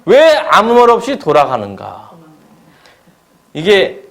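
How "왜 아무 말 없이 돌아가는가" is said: Laban's mock innocence. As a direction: play the wounded uncle, all innocence. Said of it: "라반이 말하면 뭐냐면".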